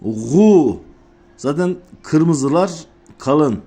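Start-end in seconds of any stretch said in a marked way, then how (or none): 0.0-0.8 Gu with a thick back U; thick vowel. Shown as a demonstration. Showing learners a thick letter, thick Gu. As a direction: say Gu deep in the throat with oo. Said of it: "Kalın olduğu için U sesiyle okuyoruz".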